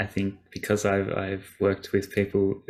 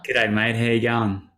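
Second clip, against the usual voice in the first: Australian accent. Shown as a demonstration. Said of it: "again, can you repeat, please?".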